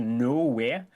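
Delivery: Nowhere with a broad Geordie vowel, the h dropped; strong Geordie accent. Shown as a demonstration. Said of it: "turns into".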